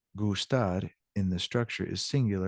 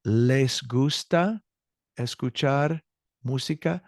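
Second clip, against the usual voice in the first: slow teaching demo; 4 semitones higher, slower than usual. Shown as a demonstration.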